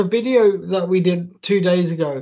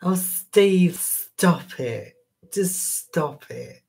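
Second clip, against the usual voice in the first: a mild camp tease, shooing Steve away; slower than usual. Acted. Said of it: "I could do a camp voice".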